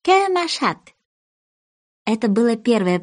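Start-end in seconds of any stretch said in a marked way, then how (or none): 0.0-0.8 high, French-sounding question; a high, put-on French "Que machat"; French phrase. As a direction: try out schoolbook French. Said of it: "она сказала".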